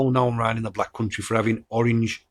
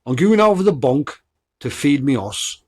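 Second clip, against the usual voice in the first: Black Country accent; 3 semitones higher, 3 dB louder than usual. Shown as a demonstration. Podcaster recapping main local sayings, Black Country accent. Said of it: "them are the two main ones".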